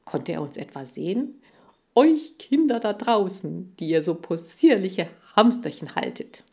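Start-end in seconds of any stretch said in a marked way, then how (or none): 1.9-6.4 put-on louder advertising host calling to children; lightly voiced showy presenter; TV pitchman. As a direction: address the young viewers with salesman's zeal. Seifried addresses the child viewers.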